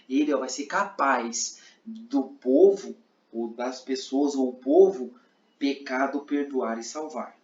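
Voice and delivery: slow, word by word, in sign order; slow interpreter phrasing. Shown as a demonstration. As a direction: lay each word down slowly for the deaf listener. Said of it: "Eu não vou fazer que ele é poderoso". (devagar, palavra por palavra, como na interpretação)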